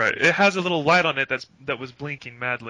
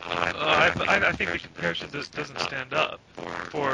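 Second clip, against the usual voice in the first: robot voice. Real, not acted. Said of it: "Now you're going robot".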